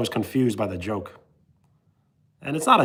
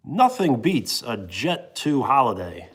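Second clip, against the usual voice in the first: slow, punchy ad-announcer read; slower than usual. Shown as a demonstration. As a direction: sell it like a holiday advert. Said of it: "That's my announcer voice".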